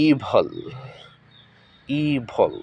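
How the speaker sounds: ইভল said EE-vl, short second syllable; ইভল with long ee and swallowed vowel; careful pronunciation. Shown as a demonstration. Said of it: "আসলে এটি শুদ্ধ উচ্চারণ হবে". (ইভল, ধীরে ও স্পষ্ট করে)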